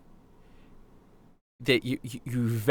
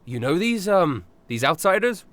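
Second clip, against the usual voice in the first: Sir Button voice; 7 semitones higher than usual. Acted. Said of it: "Button looks up and goes".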